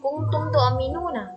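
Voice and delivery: "Kuntum tu'minuna" recited slowly, "nu" lengthened; slow recitation with a long "nu" in "tu'minuna"; two-beat long vowel. Shown as a demonstration. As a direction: hold the u before the last "na" in "tu'minuna". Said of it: "panjang dua harokat".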